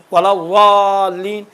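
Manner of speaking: الضالین with zaad turned into a long zoin sound. Shown as a demonstration. Teacher showing clerics a letter swap, الضالین said with zoin. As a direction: stretch الضالین slowly, zoin in place of zaad. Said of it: "غین ہے".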